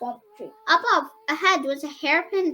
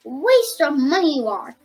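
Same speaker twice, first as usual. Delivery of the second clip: louder, contemptuous jab; spat viciously; 6 dB louder than usual. Acted. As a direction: sneer it at him. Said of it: "spat viciously".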